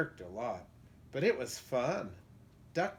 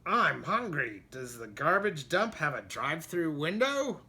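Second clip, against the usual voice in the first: goat voice; 3 semitones higher, 4 dB louder than usual. Acted. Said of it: "what he thought was".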